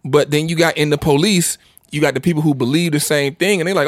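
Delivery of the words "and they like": normal talking voice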